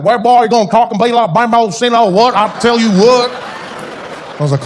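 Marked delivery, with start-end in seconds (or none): 0.0-3.3 put-on higher, louder threatening Afrikaans accent; big Afrikaans guy. Afrikaans driver answering through his window, Afrikaans-accented threat. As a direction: bluster in a thick Afrikaans accent. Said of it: "he'd turn and roll down".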